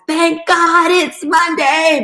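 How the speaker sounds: high, slow preacher-style hype; Eric Thomas hype line. Retold or imitated. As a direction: belt it like a motivational speaker. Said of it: "listening to Eric Thomas".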